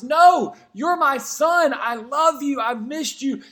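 a father overjoyed to have his son back; father's loving, eager welcome; joyful father. Retold or imitated. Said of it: "And the father goes".

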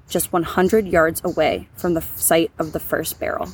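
measured, scripted storytelling read; true-crime narration. A narrator's reading. Host telling listeners about the unsolved barrel case, scripted narration. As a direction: narrate the case in an even, deliberate voice.

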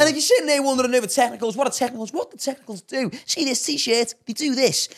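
loud, high hyped-up ad patter; sponsor read. Acted. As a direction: launch the sponsor plug at full, jokey volume. Reads the sponsor spot.

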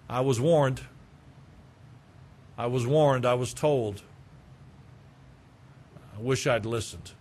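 mild rueful admission, trailing off; regretful child. Retold or imitated. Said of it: "they cannot deny".

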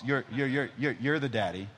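lightly voiced toddler, stuck then finishing; a hint of a three-year-old assigning parts; imitating Nora. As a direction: stumble on the start like a small child. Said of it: "this is how Nora talks".

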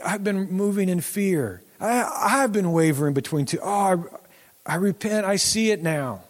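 a touch of a cry in a repenting voice; breaking up mildly while confessing; tearful repentance. Retold or imitated. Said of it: "the story something like".

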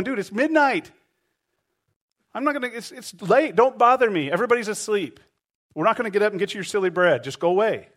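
a hint of a man woken at midnight, brushing him off; mildly put-on irritated refusal; grumpy neighbour. Grumpy neighbour voiced in story.

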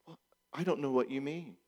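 soft, evasive passive-aggressive woman; a quiet, cool denial. Retold or imitated. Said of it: "I don't wanna make it just woman voices".

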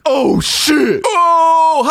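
loud, high cry of sudden realization; oh-shit moment. Retold or imitated. Host re-enacting reading the comment, exaggerated shocked realization. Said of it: "a little bit of, like, "Oh, shit" moment".

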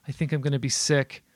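gagging on the smell; disgusted. Acted. Disgusted at the stench.

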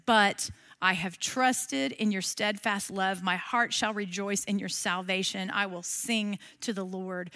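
a touch of hushed reverence; quiet reading. Shown as a demonstration. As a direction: let the verse settle gently. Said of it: "that verse five says".

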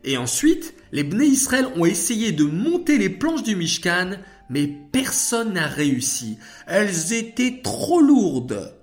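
récit de fillette, haut perché et animé; très enthousiaste. Acted. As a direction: raconter avec l'entrain d'une enfant qui connaît sa leçon. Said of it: "déclara Shaina très enthousiaste". (voix d'enfant enthousiaste)

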